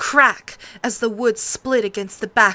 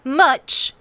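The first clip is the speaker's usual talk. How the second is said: dry; 8 semitones higher, 5 dB louder, slower than usual. A narrator's reading. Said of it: "Arya said".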